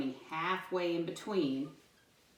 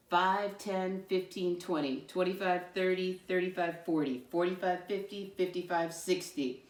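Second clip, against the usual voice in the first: counting by fives. Shown as a demonstration. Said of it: "Let's try it".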